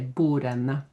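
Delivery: bordene said as "borene", no D; silent D. Shown as a demonstration. Teacher modelling the plural for learners, D silent. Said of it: "we still don't say that D".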